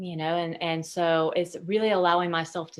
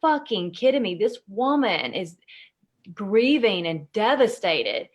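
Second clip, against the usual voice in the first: retold outrage; 4 dB louder than usual. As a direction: relive the anger at the speaker on stage. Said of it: "I was like".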